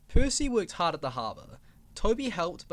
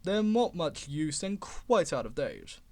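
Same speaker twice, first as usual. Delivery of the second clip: bored voice; slower than usual. Acted. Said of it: "in a bored voice".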